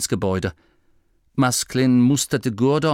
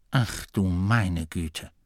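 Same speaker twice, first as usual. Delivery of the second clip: dismayed gasp; 4 semitones lower, 5 dB quieter, slower than usual. Acted. Abbot sees rain falling.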